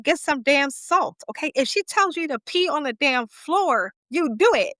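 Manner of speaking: put-on scolding the girl for doubting her mom, sassy. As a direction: lay down the law with sass. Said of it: "Your mama said".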